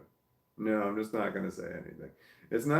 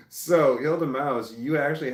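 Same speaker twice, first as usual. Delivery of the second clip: amused; 4 semitones higher, 5 dB louder than usual. Real, not acted. Laughing, calling out a chatter.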